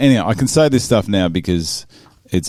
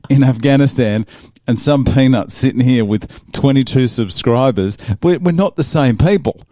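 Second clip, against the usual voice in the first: exasperated retort; 4 semitones higher than usual. Retold or imitated. Podcaster answering stolen valor accusation, exasperated retort.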